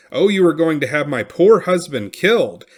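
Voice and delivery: high, loud desperate cry. A narrator's reading. Wife at the war chief's feet, crying out for her husband. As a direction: fling the words out in anguish. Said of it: "cried out".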